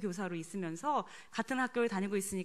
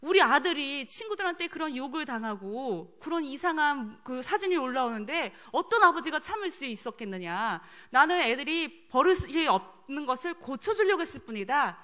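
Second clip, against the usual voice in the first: mildly indignant self-defense; retold aggrieved protest; 3 semitones higher than usual. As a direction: protest like a wronged husband, lightly acted. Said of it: "남편이 억울해하면서 하는 얘기가". (살짝 억울해하며 항변하듯)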